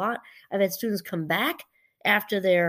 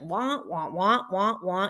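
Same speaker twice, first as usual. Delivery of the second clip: lightly voiced muted-trumpet wah wahs; understated cartoon teacher wah-wah; Snoopy adult wah-wah; slower than usual. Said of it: "like the Snoopy cartoon with the adult noise".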